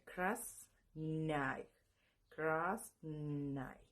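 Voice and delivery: Krasnay drawn out slowly; pronouncing Krasnay. Shown as a demonstration. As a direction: demonstrate Krasnay syllable by syllable. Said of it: "se pronuncia".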